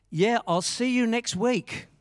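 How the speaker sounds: loud, high, drawn-out farewell; calling out. Retold or imitated. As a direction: imitate a man calling after a passer-by. Man calls out as speaker passes.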